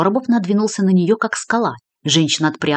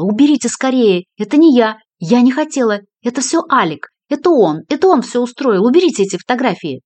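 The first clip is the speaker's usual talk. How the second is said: higher, louder panicked pleading; hysterical; 6 semitones higher, 5 dB louder than usual. A narrator's reading. Lola shown the murder photos, hysterical and loud. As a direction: beg them to take it away.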